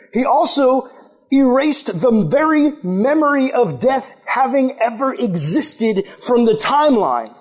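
impassioned preaching to a youth group. Acted. Youth pastor preaching death's defeat with fervor. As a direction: press it like a preacher.

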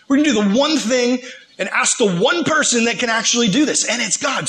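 rally your buddies with conviction; urgent rallying. Retold or imitated. Daniel urges his buddies to pray to God, urgent rallying.

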